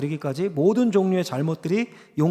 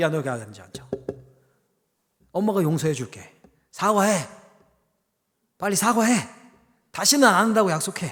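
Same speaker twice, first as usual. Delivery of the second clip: put-on demanding, accusing tone. Telling a story, acting out a mother calling her child over, imitating a mother demanding. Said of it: "엄마가 불러서 따지듯이".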